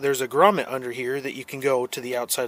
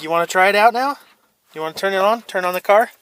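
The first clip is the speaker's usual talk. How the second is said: excited; 5 semitones higher, 9 dB louder than usual. Real, not acted. Coaxing child to start truck.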